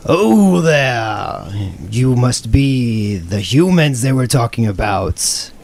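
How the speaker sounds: loud, booming lizard guy; large lizard guy. Retold or imitated. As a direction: boom it out like a big lizard. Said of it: "he says".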